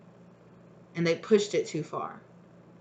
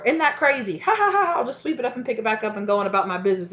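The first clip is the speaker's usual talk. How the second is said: higher and louder, breezy and clueless; mock oblivious; 5 semitones higher, 6 dB louder than usual. Someone shrugging off magnets spelling get out, high and airy. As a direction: play it dumb and cheerful. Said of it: "some of you have been like".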